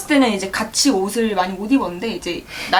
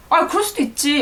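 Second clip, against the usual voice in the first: breezy shrug; 4 semitones higher than usual. Retold or imitated. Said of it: "약간 이렇게 한다니까".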